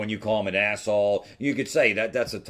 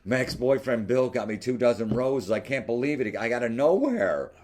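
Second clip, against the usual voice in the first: higher-pitched mock delight; imitating excited woman; 4 semitones higher than usual. Woman telling him about her ex's roses, mock excited. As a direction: imitate her thrilled gushing.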